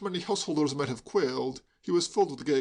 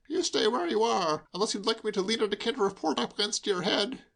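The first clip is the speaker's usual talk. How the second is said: mock threat; 7 semitones higher than usual. A narrator's reading. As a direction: threaten with tipsy glee. Hugo threatening cheerfully.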